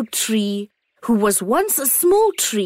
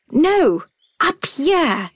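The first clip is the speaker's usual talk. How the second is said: bright, calling sun voice; the sun calling down kindly; warm beaming sun voice; 6 semitones higher, much slower than usual. A narrator's reading.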